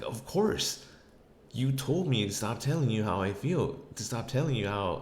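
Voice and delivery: retold quarrel comeback; exasperated retort.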